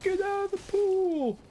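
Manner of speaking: loud, very high cartoon coach yell; drawn-out, high-pitched coach holler; over-the-top cartoonish coach. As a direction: bellow it slowly like a hammed-up movie coach. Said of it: "really over-the-top cartoonish coach".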